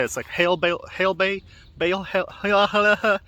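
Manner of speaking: trying hail bale over and over, tongue tripping; struggling to say it. Shown as a demonstration. Vlogger testing hail bale aloud, tripping on the sounds. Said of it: "It's, like, hard to say".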